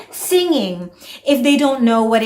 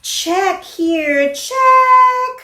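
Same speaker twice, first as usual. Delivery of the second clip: put-on higher, louder cheer for a child; excited praise; 5 semitones higher, 3 dB louder than usual. Shown as a demonstration. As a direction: celebrate like a proud teacher. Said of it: "You can tell them".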